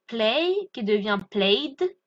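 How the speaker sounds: slow "Play, qui devient played" to show the D ending. Shown as a demonstration. Teacher slowly models "played" for French learners. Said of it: "on va le prononcer D".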